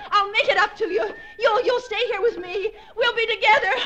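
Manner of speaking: sobbing, half-laughing cries; crying shout. Acted. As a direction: wail it through tears, hysterical.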